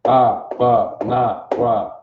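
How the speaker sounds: "Abba, na, wa" said as slow separate syllables AH-bah, nah, wah; Hebrew recitation. Shown as a demonstration. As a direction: sound out "Abba, na, wa" for the class to repeat. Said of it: "You got that?".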